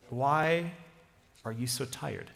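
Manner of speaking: a hint of tender concern; empathetic tone. Jesus gently asking the tired couple, empathetic. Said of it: "with a more empathetic tone".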